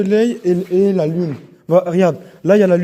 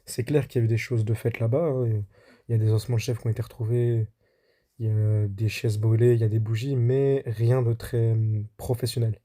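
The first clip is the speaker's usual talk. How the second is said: voice-over narration. Acted. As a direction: tell it like a documentary voice-over. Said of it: "on se retrouve pour la voix off".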